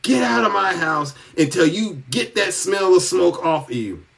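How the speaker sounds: retold irate shout at the boyfriend; mock furious shout ordering him outside; irate yelling. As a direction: yell it like the furious aunt throwing him out. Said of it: "she was irate".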